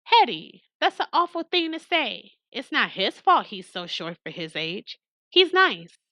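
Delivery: indignant defense. Acted. Ruthie defending Billy to Hetty.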